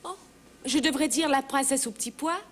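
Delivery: ordinary delivery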